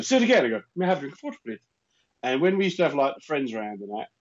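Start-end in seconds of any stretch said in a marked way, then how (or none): 0.0-0.4 lightly voiced mum, pitched up; higher voice for mum's request. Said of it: "And my mum would say". 0.8-1.6 lightly posh, pitched-up enunciation; a touch of elocution-lesson voice; careful speech-therapy diction. Retold or imitated. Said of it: "do that posh talk you've learned".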